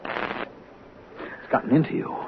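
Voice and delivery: breathless whisper, slow and hushed; a slow, shaken whisper after the struggle. Acted. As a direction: barely breathe the words, shaken. Shaken after disarming drunk friend.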